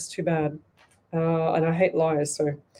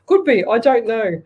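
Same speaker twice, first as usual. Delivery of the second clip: laughing; 4 semitones higher, 5 dB louder than usual. Real, not acted. Laughs at full moon idea.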